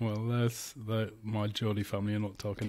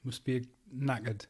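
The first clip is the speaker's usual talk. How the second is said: put-on Geordie accent, slightly higher at the start; 3 semitones higher than usual. Podcaster imitating a Geordie welcoming someone to Exeter, Geordie accent. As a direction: greet a visitor in a mock Geordie voice. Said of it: "from, like, Geordie going".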